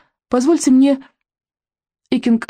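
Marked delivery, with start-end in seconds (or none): 0.3-1.0 courteous, lifted voice; polite. A narrator's reading. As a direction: offer it politely. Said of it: "вежливо произнёс он".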